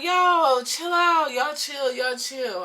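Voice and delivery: starts high and loud, then settles; calling them off. Retold or imitated. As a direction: call out to break it up. Acted breaking up group argument.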